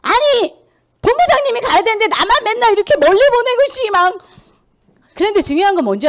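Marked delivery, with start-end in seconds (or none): 0.0-4.2 higher-pitched, re-enacted annoyed outburst at the boss; complaining to the division head, re-enacting an irritated protest; retold angry complaint. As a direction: act out snapping at the manager, pitch up. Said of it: "그래서 제가 막 화내가지고".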